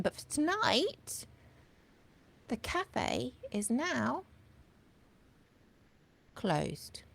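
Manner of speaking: fading to a whisper. Acted. Host closing the cafe for tonight, fading to a whisper. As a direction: let the last word vanish into a whisper.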